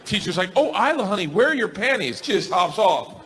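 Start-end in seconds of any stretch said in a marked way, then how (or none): 0.6-2.2 lightly voiced teacher, lifted pitch; concerned teacher. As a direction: fuss gently over a small child. Teacher voiced talking to small child.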